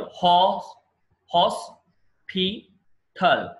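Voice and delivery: హాస్పిటల్ drawn out slowly, each syllable apart; slow syllable demo. Shown as a demonstration. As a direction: pull హాస్పిటల్ apart into three slow beats. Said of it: "ఇది చూడండి". (నెమ్మదిగా అక్షరాలుగా విడదీసి)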